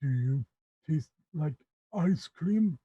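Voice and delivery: halting, dim ogre asking a simple question. Acted. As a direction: break it into chunks like a slow-witted ogre. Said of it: "he says".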